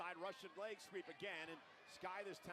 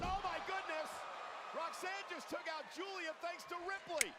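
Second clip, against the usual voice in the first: surprised; 9 semitones higher, 3 dB louder than usual. Real, not acted. Surprise twist in match.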